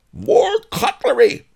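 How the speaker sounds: high, loud, stretched howl. A narrator's reading. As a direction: howl the order at the top of your voice. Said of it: "howled Miser Shen".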